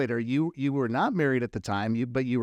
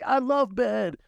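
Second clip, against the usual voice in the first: a singer's punchline; 10 semitones higher than usual. Retold or imitated. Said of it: "And he's like".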